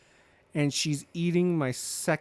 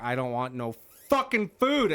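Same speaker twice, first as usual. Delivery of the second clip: grumpy refusal; 5 dB louder than usual. Retold or imitated. Quoting her grumpy refusal.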